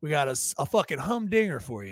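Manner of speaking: fake Southern American accent. Host opening the show to the audience, in a southern accent. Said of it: "You started with a southern accent".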